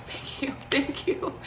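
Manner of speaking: whispered thanks with a little laugh; relieved whisper. Real, not acted. Thanking the nurse after the painless IV, whispered. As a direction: breathe out thanks, barely voiced.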